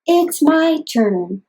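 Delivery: bouncy jumping phrase. Shown as a demonstration. Therapist modeling a jumping game for a child, bouncy slow syllables. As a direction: jump on every syllable with energy. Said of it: "big body movements like elephant, or jumping".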